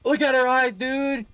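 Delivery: loud startled call; startled exclaim. Real, not acted. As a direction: blurt it out at the creepy face. Startled by creepy figure.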